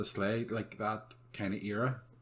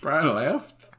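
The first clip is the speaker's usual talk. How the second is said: laughing; 7 dB louder than usual. Retold or imitated. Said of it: "It's, it's like".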